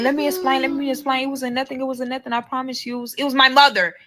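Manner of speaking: mock pleading explanation; pleading boyfriend. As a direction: beg her to let you explain. Boyfriend pleading, voiced high.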